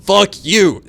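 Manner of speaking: high, loud shout; brain yelling. Retold or imitated. Brain curses the body, high loud shout. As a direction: scream the insult. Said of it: "my brain's like".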